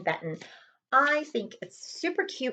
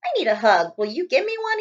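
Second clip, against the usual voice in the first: lightly voiced small hedgehog pleading; a hint of a timid hedgehog asking again; 6 semitones higher than usual. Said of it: "he asked".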